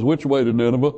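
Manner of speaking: said while laughing; laughing through it. Retold or imitated. Preacher telling Jonah's punchline with a laugh. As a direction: deliver Jonah's line half laughing at the joke. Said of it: "Jonah looks up and says".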